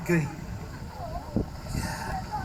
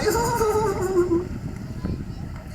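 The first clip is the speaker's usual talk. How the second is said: big laugh. Real, not acted. Laughs about money and mahi.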